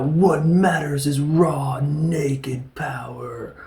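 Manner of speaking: slow, hushed menace, mocking a bad speech; hammed-up whisper. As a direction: drawl it out as a cheesy villain. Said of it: "it's delivered poorly".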